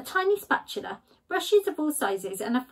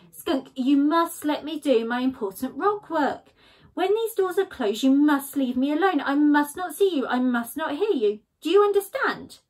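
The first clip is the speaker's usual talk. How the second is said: stern Badger; 4 semitones higher, 4 dB louder than usual. Badger telling Skunk to leave him alone, firm. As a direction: lay down the law.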